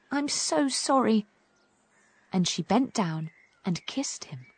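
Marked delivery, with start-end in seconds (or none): 0.1-1.3 apologetic. Acted. Poppy apologises to hurt frog.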